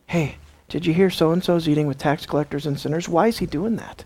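lightly confidential, prying tone; gossiping. Acted. Gossip asking about so-and-so's eating, lightly confidential. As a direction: pass on a rumor, ending in a question. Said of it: "This is a great example of gossip".

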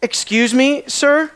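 mild indignant excuse me, sir?; attitude. Retold or imitated. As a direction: excuse me, sir? with a sharp rising edge on sir. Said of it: "a cop of an attitude".

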